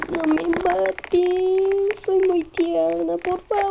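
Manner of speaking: slow, cutesy pleading voice; cutesy plea. Pretend. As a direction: beg sweetly and slowly. Ruega con voz tierna. (súplica tierna y lenta)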